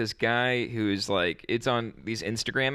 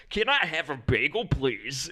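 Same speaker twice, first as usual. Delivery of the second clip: higher, exaggerated foreign tones of mock Chinese; clumsy mock Chinese accent; 4 semitones higher than usual. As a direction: play a show-off tourist faking a Chinese accent. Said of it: "I learned a little bit of, uh, like, Chinese".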